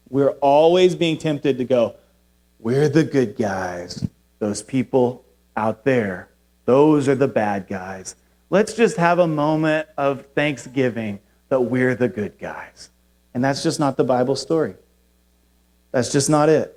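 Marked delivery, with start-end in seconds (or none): 2.6-12.9 smug mock piety. Mocking self-righteous believers.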